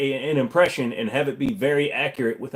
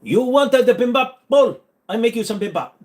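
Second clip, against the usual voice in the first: hammed-up Asian accent, pitched way up; mock Asian accent; 11 semitones higher, 6 dB louder than usual. Shown as a demonstration. Cook offering a bowl, in mock Asian accent. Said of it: "do an Asian accent".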